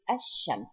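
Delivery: "ash-shams" with the l merged into a doubled sh; silent lam. Shown as a demonstration. Teacher demonstrating a silent lam, "ash-shams" with no l. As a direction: drop the l and hold the sh in "ash-shams". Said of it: "We do not pronounce it".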